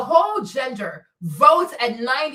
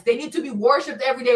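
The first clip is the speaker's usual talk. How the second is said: usual speaking voice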